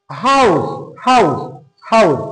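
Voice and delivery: হাউস with a clear ao glide, falling; pronunciation demo. Shown as a demonstration. Teacher drilling হাউস with the ao sound. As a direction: model হাউস, gliding a to o. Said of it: "আও sound".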